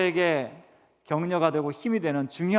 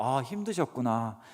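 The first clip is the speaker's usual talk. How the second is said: gentle empathy; 2 semitones lower, 4 dB quieter than usual. Shown as a demonstration. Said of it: "감정 언어를 딱 그대로 반복해주면".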